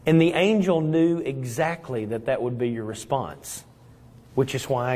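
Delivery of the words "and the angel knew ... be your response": ordinary talk, nothing marked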